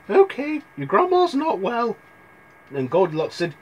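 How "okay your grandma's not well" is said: high-pitched mother voice; mother sending her girl on an errand, pitched up; Red's mother. Acted. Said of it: "Her mother was packing".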